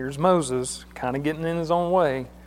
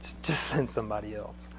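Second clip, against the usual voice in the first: soft, low, whiny plea; pleading Moses; 5 semitones lower, 8 dB quieter than usual. Retold or imitated. Moses begging God to send another, soft and low. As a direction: beg to be let off, voice sinking. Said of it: "Moses is there and he goes".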